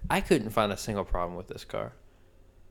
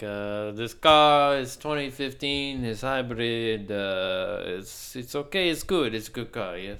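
put-on half-hearted Middle Eastern accent; slower than usual. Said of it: "I can't do the accent".

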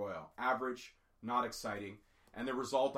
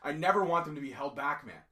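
choked up; 3 dB louder than usual. Real, not acted. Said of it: "I'm sorry, I'm getting choked up".

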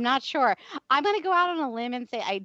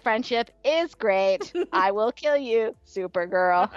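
slow menacing Hope voice; slower than usual. Pretend. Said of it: "Hope is like".

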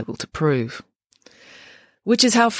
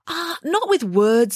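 higher, slow, lightly voiced street girl; tough inmate girl; 11 semitones higher, slower than usual. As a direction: drawl it out knowingly. Inmate Brianna explains the threat.

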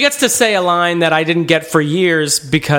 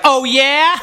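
high, teasing villain "Oh, yeah?"; a hint of a cartoon villain; 9 semitones higher than usual. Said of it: "cartoon villain".

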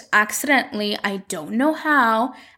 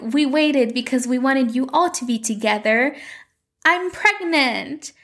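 mock announcement; 3 semitones higher than usual. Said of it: "And they're like".

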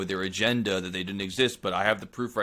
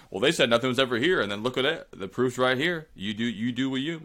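lightly put-on Southern accent, a touch higher; mock Southern drawl; 4 semitones higher than usual. Podcast host imitating the bone collector, light Southern drawl. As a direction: slip into a mild Southern drawl imitating him. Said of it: "I keep giving a southern accent".

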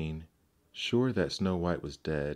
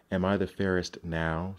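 demanding question. Acted. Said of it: "she demanded".

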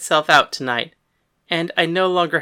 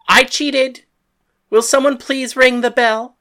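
higher and louder mock confession; calling to the crowd; 5 semitones higher, 7 dB louder than usual. Paris announces to the crowd, mock confession, loud. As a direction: call it out to the crowd, mocking.

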